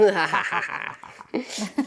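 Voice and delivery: evil cackle to close the show; hammed-up evil villain cackle; villain laugh. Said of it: "faz uma gargalhada de vilão para acabar".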